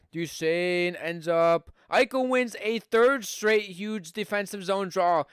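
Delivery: brisk hockey play-by-play call; live play-by-play. Acted. Streamer calling the hockey game for his viewers, live play-by-play.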